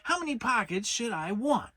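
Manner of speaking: a fussy rabbit laying out a grave problem slowly; slow and careful. A narrator's reading. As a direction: spell it out very carefully. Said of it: "very slowly and carefully".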